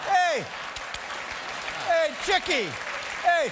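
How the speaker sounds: high, loud construction-worker hoots; hammed-up street catcall shouts; mock catcalling. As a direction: holler like a worker hooting across the site. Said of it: "are hooting at each other".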